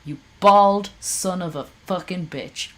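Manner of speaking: cursing him out; real angry swearing; angry insult. Real, not acted. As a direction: spit the insult out hot. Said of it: "I am so angry at this man".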